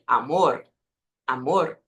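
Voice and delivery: amor with a small tapped final r; slight final vibration. Shown as a demonstration. Teacher pointing out the last sound, slight vibration. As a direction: end amor on a little trill. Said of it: "tem uma vibraçãozinha no final".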